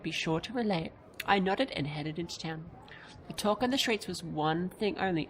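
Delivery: steady storyteller read of the game text; story narration. Acted. Gamer reading the travel story to viewers, in a narrator voice. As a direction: read the passage like an audiobook.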